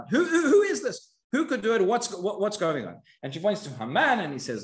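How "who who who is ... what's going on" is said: the king bursting out, shocked and angry; furious questioning. Retold or imitated. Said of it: "he's confused and he's furious".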